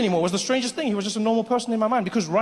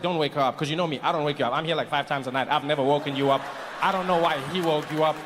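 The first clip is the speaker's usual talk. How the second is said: reassuring friend; 5 semitones lower than usual. Acted. Acted calm roommate reassuring.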